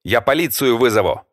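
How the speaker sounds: high, loud frightened cry; scared host shouts at the intruder, high and shaky; trembling shout. Acted. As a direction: threaten with the police while terrified. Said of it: "дрожащим голосом крикнул Влад".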